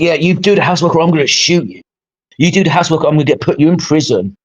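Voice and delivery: sarcastically acted mock threat; sarcastic. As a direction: put on a lightly mocking threat, quick and casual. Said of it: "that's sarcasm, by the way".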